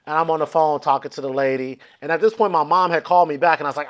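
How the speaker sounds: usual speaking voice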